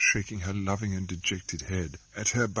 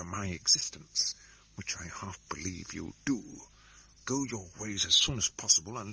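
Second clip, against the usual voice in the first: hushed spy voice. Acted. Solomon warns his sister in the street, hushed. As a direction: keep it secret, whispering.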